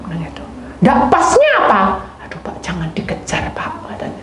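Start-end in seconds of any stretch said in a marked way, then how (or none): 0.8-1.8 higher, louder insistent question; demanding higher. Retold or imitated. Man pressing the youth, higher and louder. 2.3-3.7 soft, pleading whisper; whispered plea. Retold or imitated. Youth begging the man to stop asking, whispered.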